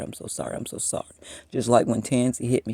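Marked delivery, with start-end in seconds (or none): 0.0-1.1 "sorry" breathed out unvoiced, much softer; whispered sorry. The repentant apologizer fading into a whispered apology. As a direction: let "I'm so sorry" fade into a whisper.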